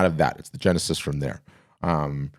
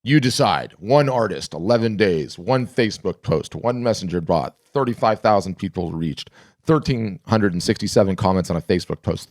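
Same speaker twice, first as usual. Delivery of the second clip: hyped headline read. Acted. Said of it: "so I'll read it".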